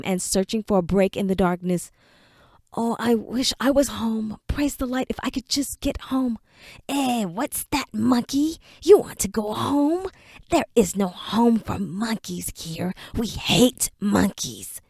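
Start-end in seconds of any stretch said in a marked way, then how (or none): 2.7-6.4 softer, longing plea to himself; homesick whimper. Acted. Enoch alone in the darkness, softly longing for home. 6.9-14.8 slow, sneering creature voice; mock the captive with slow menace; taunting creature. Dark creature taunting Enoch, slow and sneering.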